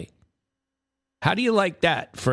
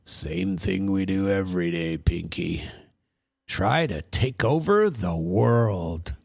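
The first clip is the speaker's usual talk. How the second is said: Brain impression; 3 semitones lower than usual. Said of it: "we'll put Pinky in the Brain".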